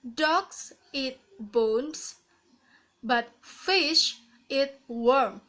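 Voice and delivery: slow "Dogs eat bones" lifted, "fish eat worm" coming down; rising falling intonation. Shown as a demonstration. Teacher repeating the example slowly, rise then fall to "worm". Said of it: "rising falling intonation".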